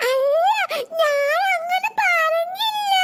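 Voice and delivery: high, slow tearful protest; crying denial. Acted. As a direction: sob out the denial like a child. Child denies while crying. (കരഞ്ഞുകൊണ്ട് നിഷേധം)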